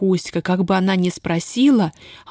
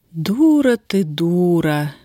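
bitter; much slower than usual. Acted. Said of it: "горько сказала Устя".

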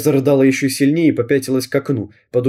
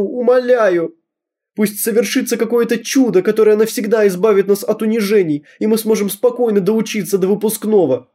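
tearful prayer; 8 semitones higher than usual. Acted. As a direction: beg heaven for a miracle. Girl prays to icon. (девочка молится иконке, высоко и со слезами)

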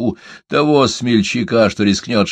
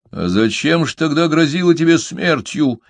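surprised; 7 semitones higher, 3 dB louder than usual. A narrator's reading. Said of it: "удивился Фолка".

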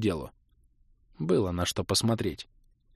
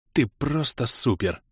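shaky praise; 2 semitones higher, slower than usual. Acted. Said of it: "дрожащим голосом похвалил я".

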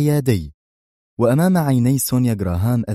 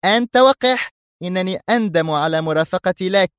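put-on high, loud outraged girl's cry; furious young woman; angry; 9 semitones higher, 3 dB louder than usual. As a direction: fling the insult then turn away. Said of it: "تقول في غضب".

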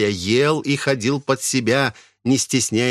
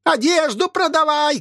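put-on shrieking old woman. Possessed old woman screaming from the house for food. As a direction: howl it like a possessed hag. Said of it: "кричала старуха".

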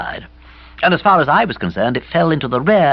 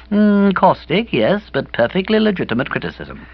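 judicious approval; 7 semitones higher than usual. A narrator's reading. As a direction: weigh each word like a critic. Kipper's imagined judicious nod.

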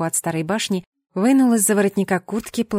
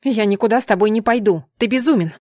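raised, louder refusal; defiant shout; 4 dB louder than usual. Acted. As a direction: push back loudly. Heroine refuses, frightened.

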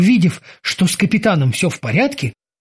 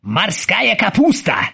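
squeezed out; 3 semitones higher, slower than usual. Acted. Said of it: "выдавил из себя несчастный".

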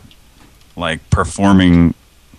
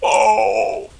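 high delighted commercial gush; much slower than usual. Pretend. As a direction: gush like a TV ad customer. Mock delighted ad reaction.

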